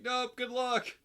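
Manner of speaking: high, loud and breezy "nope"; flippant brush-off. Retold or imitated. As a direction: toss it off, chirpy and careless. Piper brushes off the dead man.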